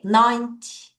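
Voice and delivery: ninety with strong NINE, weak ty; NINE-ty, light short ending; stress on the front. Shown as a demonstration. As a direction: hit NINE, let ty drop short. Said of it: "앞을 강하게".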